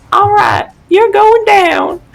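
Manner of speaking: put-on girly southern accent, very high and loud. Voicing Willow stepping up to attack: girly southern accent. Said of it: "Willow is just a southern accent, but in a girly voice".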